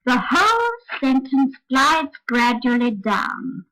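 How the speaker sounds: slow descent with only a small rise on "glides"; interrupted glide down. Shown as a demonstration. One last demonstration for learners, slow glide with slight lift on "glides". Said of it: "only quite a small rise".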